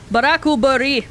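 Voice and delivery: Barakubori said as Japanese "ba-ra-ku-bo-ri"; Barakubori, every syllable even, r tapped; Japanese loanword. Shown as a demonstration. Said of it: "one of my favorite words in Japanese is blackberry".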